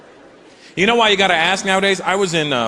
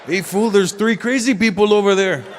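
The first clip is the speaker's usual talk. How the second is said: put-on Mexican-accented, higher "tres locos", slow at the end; Mexican guy; 5 semitones higher than usual. Mexican guy punning on the name, in a Mexican accent. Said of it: "Even the Mexican guy went".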